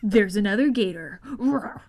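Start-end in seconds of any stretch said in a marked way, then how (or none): 1.2-1.8 crocodile roar. Shown as a demonstration. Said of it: "That's my imitation".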